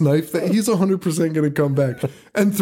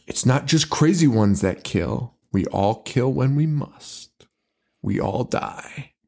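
menacing killer; 3 semitones lower than usual. Retold or imitated. Quoting the killer Hawk's menacing lines.

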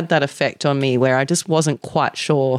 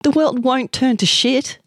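high-pitched teasing friends; mocking; 10 semitones higher than usual. A narrator's reading. Friends teasing Amanda about public toilets, mocking. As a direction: tease her in a raised pitch. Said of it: "they mocked".

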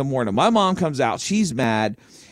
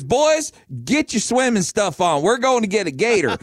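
put-on dad rallying boys; 6 semitones higher than usual. Father calling his sons out, high eager rallying. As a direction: rouse the kids like a gung-ho dad.

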